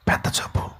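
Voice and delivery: whispered gossip; mock whisper. Visitor gossiping about patient, in a mock whisper. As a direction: whisper it behind the sick man's back. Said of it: "చెవులు కొరుక్కుంటారు".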